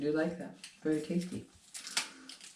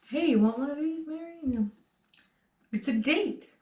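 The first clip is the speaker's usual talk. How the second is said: Indiana Jones impression; 9 semitones higher than usual. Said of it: "talking to Marion".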